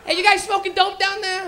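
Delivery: loud, high cop shout; cop calling out. Retold or imitated. Bike cop shouting at the stoners, loud and high. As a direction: call down at the stoners.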